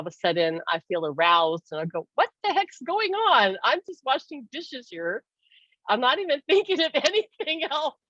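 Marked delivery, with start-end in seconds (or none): 2.1-8.0 high-pitched, puzzled retold protest; startled bewilderment. Woman caught off guard washing dishes, startled bewilderment. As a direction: act out baffled surprise, voice jumping up.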